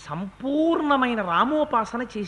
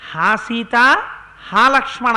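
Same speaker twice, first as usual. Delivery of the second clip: mock shout of the two names, louder on the second; retold cry; 7 dB louder than usual. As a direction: call out as the dying demon in Rama's voice. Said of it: "అని తన కంఠంతో అరిచాడు".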